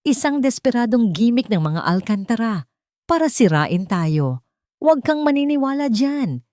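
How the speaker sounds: loud, high, furious denial; mother lashes out at the news; shouting it all down as a lie; angry. A narrator's reading. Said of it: "galit na sabi ni Isabela".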